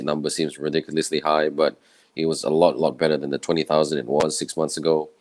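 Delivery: tired, croaky voice. Real, not acted. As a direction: talk through a worn, croaky throat. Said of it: "I sound like a croaky voice".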